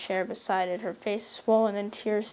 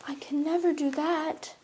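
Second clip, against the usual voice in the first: higher, firm refusal; determined, dark; 6 semitones higher than usual. A narrator's reading. Anne refusing Marilla, determined and dark. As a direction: refuse darkly and flatly. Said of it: "said Anne determinedly and darkly".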